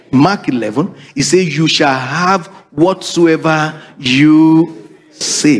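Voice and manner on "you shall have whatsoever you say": very slow, weighty quotation; scripture read slowly. Acted. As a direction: lay each word down slowly.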